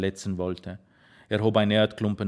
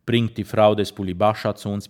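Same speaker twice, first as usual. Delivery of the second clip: a firm, louder order; commanding; 5 dB louder than usual. Acted. Grandfather orders a Roma man to fetch help, firm and louder. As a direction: bark the order at the man by the collar. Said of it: "befahl er".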